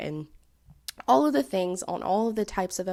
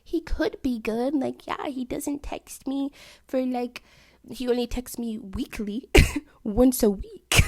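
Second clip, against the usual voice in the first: mock optimism; 6 semitones higher than usual. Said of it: "the type of attitude I took towards".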